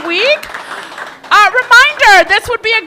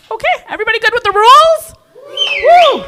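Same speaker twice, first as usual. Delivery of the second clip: hyping the crowd; 7 semitones higher, 4 dB louder than usual. Real, not acted.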